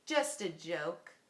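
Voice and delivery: loud mock laugh then slow tease. A narrator's reading. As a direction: laugh it off teasingly. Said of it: "and laughed".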